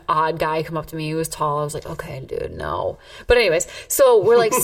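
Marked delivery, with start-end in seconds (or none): 1.9-3.0 low, quiet refusal; retold brush-off. Woman recalling an odd guy coming up to her, low brush-off. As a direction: turn him down under your breath, dropping low.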